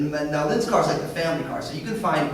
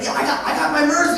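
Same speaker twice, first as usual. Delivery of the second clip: put-on higher, louder proud kid; child voice; 9 semitones higher, 5 dB louder than usual. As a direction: show off like a small boy. Son voiced in story.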